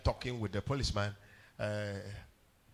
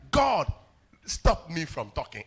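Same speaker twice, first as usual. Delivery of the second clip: pleading prayer; 9 dB louder, slower than usual. Retold or imitated. Retold desperate prayer.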